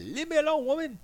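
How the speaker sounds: high loud mock protest; mock indignant shout. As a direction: bellow it like a put-upon husband. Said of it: "I was like".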